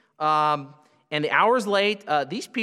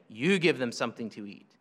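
"You" hit as if poking a chest; firm, low "You give them"; a hint of finger-pointing on "You"; emphatic You; 6 semitones lower, 4 dB quieter than usual. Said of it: "pointing his finger in their chest".

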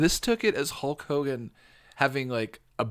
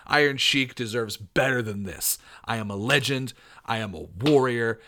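lightly voiced proud wrestler, slowing at the close; mild tough-guy indignation; 2 semitones lower than usual. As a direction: declare it like a promo finale. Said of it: "go with a tough voice".

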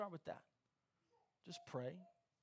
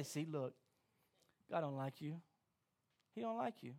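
taunting enemy; 6 semitones lower, 6 dB quieter than usual. Acted.

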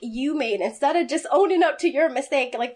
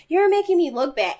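mock yell; 5 semitones higher than usual. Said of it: "We hear him in his office yelling".

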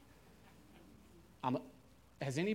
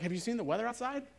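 high, fast, louder question; excited question; 9 semitones higher, 5 dB louder, faster than usual. Retold or imitated. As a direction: pitch it up, eager to share the news. Dave answers, voiced in retelling.

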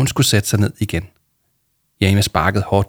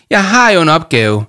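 higher, louder, upset objection; sniffling protest; 7 semitones higher, 7 dB louder than usual. A narrator's reading. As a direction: object as if close to tears. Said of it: "snøftede Jama". (grådkvalt, højt protesterende)

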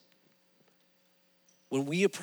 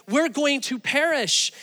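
mock panic, higher and louder; panicked disciples; 9 semitones higher, 5 dB louder than usual. Disciples waking Jesus in the storm, freaking out. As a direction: cry out in alarm, retold. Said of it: "they're freaking out and they're waking up Jesus".

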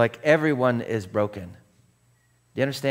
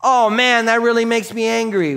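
calm honest statement; 10 semitones higher, 5 dB louder than usual. Shown as a demonstration. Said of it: "didn't know how to actually say".

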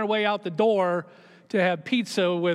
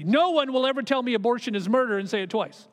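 intense; 2 semitones higher than usual. Retold or imitated. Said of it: "he said it with this intensity".

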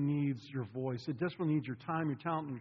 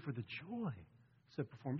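quiet and sincere; 9 dB quieter than usual. Shown as a demonstration. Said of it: "He said".

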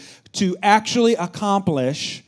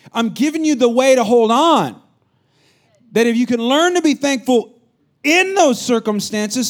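earnest mentor; 8 semitones higher, 6 dB louder than usual. Retold or imitated. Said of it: "he said".

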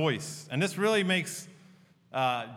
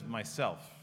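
low, hushed answer as Aslan; soft mock whisper; 6 semitones lower, 5 dB quieter than usual. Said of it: "He whispers, so soft you could hardly hear".

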